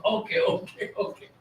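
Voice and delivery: whispered soothing okays. Real, not acted. Owner calming his eager dog, whispered okays. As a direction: hush the dog gently.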